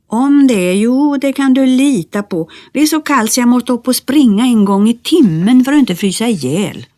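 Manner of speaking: high, fast, lively little-man voice; small Nisse voice. Acted. Nisse tells Bertil about freezing nights, high and fast. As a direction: chatter it out like a tiny elf.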